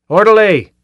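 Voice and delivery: high, loud angry bellow; full shout. A narrator's reading. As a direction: yell it out at full force. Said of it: "was already shouting".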